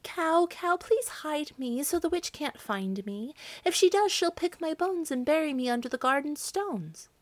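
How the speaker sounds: high, urgent plea; young girl crying out high and pleading; frightened girl pleading. Acted. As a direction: beg the cow to hide you. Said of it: "So she ran to the cow and cried".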